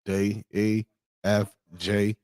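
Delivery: British accent alphabet, last letter exaggerated. Streamer mocking British people saying the alphabet, British accent. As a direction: recite letters evenly, then a punchy mock-British "oitch". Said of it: "British people be like".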